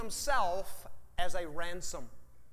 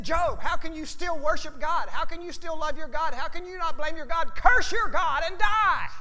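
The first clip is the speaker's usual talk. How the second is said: rising mock tirade, higher, ending in a shout; scolding wife; 6 semitones higher, 4 dB louder than usual. Preacher voicing Mrs Job urging Job to curse God, building to a shout. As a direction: build the nagging to a yell. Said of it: "She said".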